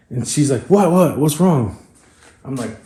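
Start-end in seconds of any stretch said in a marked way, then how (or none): 0.6-1.8 imitating a panicked partner, high and loud; mock panic, pitched up; panicking. Retelling startled partner at the track, panicking.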